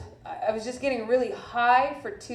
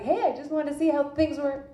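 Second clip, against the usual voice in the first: lightly chirpy, higher-pitched greeting; happy; 5 semitones higher than usual. Retold or imitated. Anesthesiologist checking on a patient in agony, happy. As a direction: breeze in cheerfully, pitch lifted. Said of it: "all happy".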